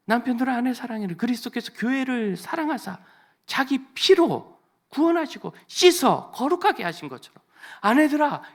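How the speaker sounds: high, loud, fervent scripture proclamation; full-force preaching. Acted. The pastor loudly proclaims scripture to the couples in the congregation.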